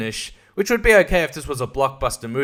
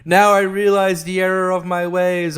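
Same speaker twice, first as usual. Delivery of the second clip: mock remorse; 3 semitones higher, 5 dB louder than usual. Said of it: "And they're like".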